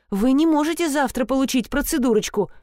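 usual speaking voice

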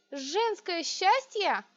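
high, slow outraged cry; breaking into a shout. A narrator's reading. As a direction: hurl the words back at him. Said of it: "Я сорвалась на крик". (сорвалась на крик)

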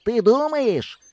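high, sharp snide question; a boy jabbing at a know-it-all; sarcastic. A narrator's reading. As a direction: needle him with sarcasm. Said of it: "уїдливо сказав я".

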